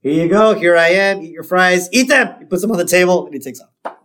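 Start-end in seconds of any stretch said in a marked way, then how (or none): 0.0-2.3 higher, impatient patter; mock exasperation rising to a high finish; Moe. Upset Moe serving fries again, rising impatience. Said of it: "Moe's very upset".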